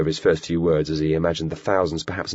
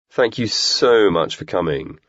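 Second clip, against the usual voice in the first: sarcastic; 3 semitones higher, 4 dB louder, slower than usual. Acted. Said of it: "grinning sarcastically".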